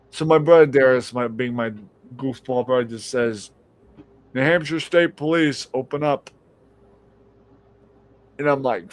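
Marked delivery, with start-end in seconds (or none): 4.3-6.3 lightly voiced police officer at the door. Brother pranks the household at the door, mock police voice. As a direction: announce it firmly, slightly higher, like police. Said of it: "pulled the police officer voice so well".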